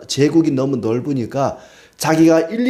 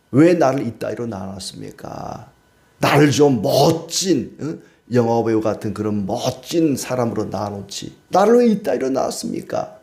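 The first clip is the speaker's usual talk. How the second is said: put-on whining child. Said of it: "자녀가 부모한테".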